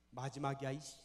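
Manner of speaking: usual speaking voice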